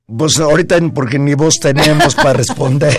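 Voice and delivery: losing her voice, hoarse and strained. Real, not acted. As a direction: speak through a hoarse, failing voice. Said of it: "con esta afonía".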